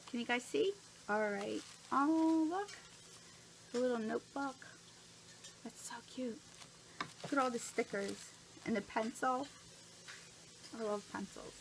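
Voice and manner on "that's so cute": soft whispered cute; awed whisper. Real, not acted. Admiring the little notebook, hushed whisper. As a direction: whisper it in awe.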